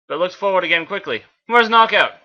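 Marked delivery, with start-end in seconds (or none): 1.5-2.1 wrong voice. Acted. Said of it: "Sorry, that was".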